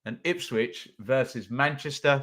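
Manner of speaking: muffled into a cup; talking into a cup. Real, not acted. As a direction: mouth behind a mug. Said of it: "Sorry, I'm talking into my cup".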